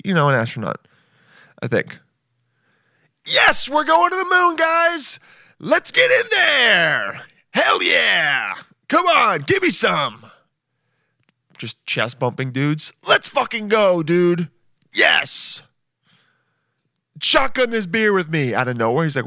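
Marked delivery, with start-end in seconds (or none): 3.3-10.2 much higher, louder frat-bro hype; chest-bump the crew with bro energy; party-bro astronaut yelling to the crew; fratstronaut. Acted. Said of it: "I just made a character". 13.1-18.5 chest-bump the crew with bro energy; party-bro astronaut yelling to the crew; fratstronaut. Acted. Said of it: "I just made a character".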